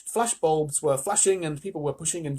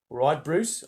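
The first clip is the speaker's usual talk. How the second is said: practice Australian accent; Australian accent attempt. Shown as a demonstration. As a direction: test out a matey Australian accent. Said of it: "loud, Australian chewing gum".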